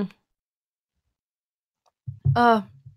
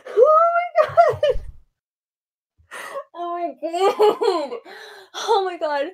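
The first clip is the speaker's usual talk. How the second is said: slow, drawn-out tearful gasping laugh; overwhelmed, between laughing and crying; overwhelmed disbelief; 6 semitones higher, slower than usual. Real, not acted. Overwhelmed by a big donation.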